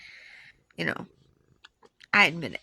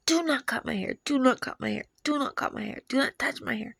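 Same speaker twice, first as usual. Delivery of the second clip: higher-pitched imitated pleading; mildly acted desperate plea, pitched up; retold hysterical begging; 5 semitones higher than usual. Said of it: "I was hysterically crying, um, begging them".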